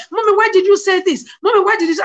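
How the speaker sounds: mildly acted child's complaint to mommy; upset child. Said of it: "she was so obsessed".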